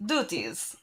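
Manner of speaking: light, hammed-up attempt at a Russian accent. Co-host reads a cat-chief job posting on request, mock Russian accent. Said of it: "doing this in a Russian accent".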